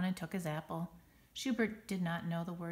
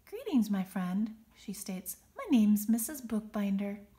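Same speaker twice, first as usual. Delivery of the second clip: soothing; 2 semitones higher, 6 dB louder than usual. Acted. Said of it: "in a soothing voice".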